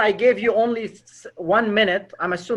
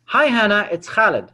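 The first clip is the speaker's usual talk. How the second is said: familiar hello, a little louder, falling on the name; friendly greeting; 4 dB louder than usual. Shown as a demonstration. Sales caller greeting a stranger like friends talk, friendly and familiar. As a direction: announce yourself like an old friend. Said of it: "or friends talk like this?".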